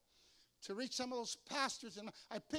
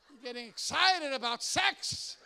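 louder, laughing through the punchline; 3 semitones higher, 12 dB louder, slower than usual. Real, not acted. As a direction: crack up while saying it.

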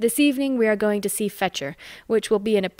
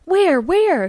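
high, louder alarmed shriek; 9 semitones higher, 6 dB louder than usual. A narrator's reading. Amy shrieks at her sister, looking for the gallows. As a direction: squeal it in a fright. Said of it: "shrieks Amy".

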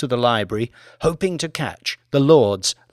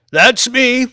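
put-on high, loud, thrilled old lord; an old man spotting himself on film; excited cry; 11 semitones higher, 6 dB louder than usual. A narrator's reading. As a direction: blurt it out with delight. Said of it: "he cried".

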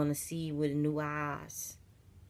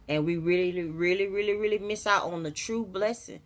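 1 building emphasis; 3 semitones higher, 5 dB louder than usual. Real, not acted.

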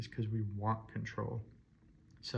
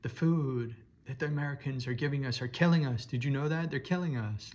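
hammed-up alarm to sell fear; lightly imitating a fear-mongering influencer; mock fearmonger pitch; 3 semitones higher than usual. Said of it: "Create fear".

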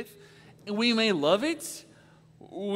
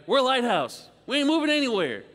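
higher and louder, "We're" hammered down; emphatic retort; 4 semitones higher, 4 dB louder than usual. Retold or imitated. Lighthouse keeper firing back at the captain, loud and emphatic. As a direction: plant your feet and announce it won't budge.

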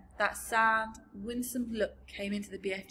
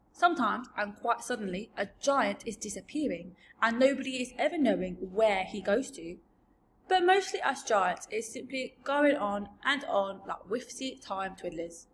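lightly voiced giant, musing; a hint of a rustic giant; giant storyteller; 4 dB louder than usual. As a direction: explain it as a simple, odd giant. BFG explains giants' lives.

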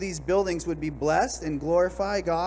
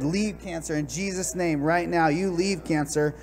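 forceful rebuke. Retold or imitated. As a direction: rebuke it like a preacher casting out a demon. Retold prayer rebuking the cancer.

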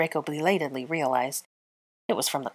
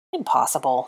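scoffing; 3 semitones lower than usual. Acted. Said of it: "scoffed Draco".

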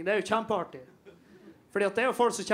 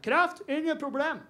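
higher, slow, smug delivery; mock know-it-all; 7 semitones higher than usual. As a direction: lightly ham up a preachy quack. Mocking alternative-medicine guy.

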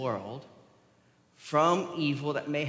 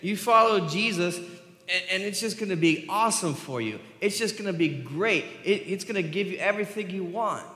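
higher-pitched, lightly mocked promise; mock sales pitch; 5 semitones higher than usual. Preacher mimicking how the culture sells following Jesus, mock upbeat pitch. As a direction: sell it like an easy, too-good promise. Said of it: "So often in our culture, what we say is".

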